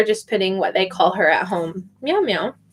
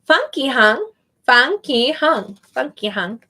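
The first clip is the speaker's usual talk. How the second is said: slow careful name. Shown as a demonstration. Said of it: "this is my last one".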